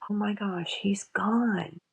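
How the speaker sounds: breathy whispered realization; whispered thought. Retold or imitated. Daughter realizing dad died, whispered. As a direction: breathe it out in shock. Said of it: "And I thought".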